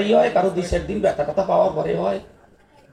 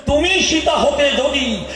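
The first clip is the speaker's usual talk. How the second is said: Ravana's confession; 5 semitones higher, slower than usual. Acted. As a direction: declaim it grandly, drawn out. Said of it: "Ravan বলেছিল". (রাবণের ধীর উচ্চ ঘোষণা)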